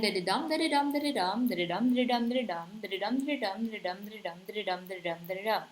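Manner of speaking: "da-da-dum" in a running chant, stress on each DUM; musical limerick rhythm. Shown as a demonstration. Teacher demonstrating the rhythm of limericks again, "da-da-dum" with every third beat accented. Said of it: "the rhythm of, of limericks. Again".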